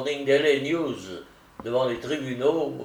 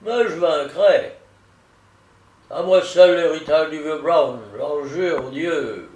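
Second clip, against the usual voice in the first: loud, high, slow oath; defiant vow; 4 semitones higher, 5 dB louder than usual. A narrator's reading. Attorney vows to win the inheritance, fiercely determined. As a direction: swear it forcefully, stretching the words.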